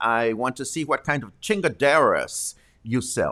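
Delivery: put-on, overdone, exaggerated American accent. Joking while using spanish words, in an exaggerated american accent. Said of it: "I might say the word chingadera with an American accent, and I will stress the accent".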